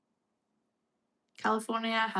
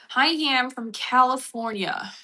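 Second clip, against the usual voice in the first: excited greeting; 4 semitones higher, 7 dB louder, slower than usual. Real, not acted. Greeting a commenter.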